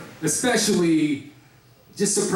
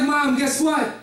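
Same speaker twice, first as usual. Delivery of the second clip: higher, giddy taunt at mom, laughing; gleeful taunt; 5 semitones higher than usual. Retold or imitated. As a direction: rub it in with a giddy grin. Son gleefully provoking his mother.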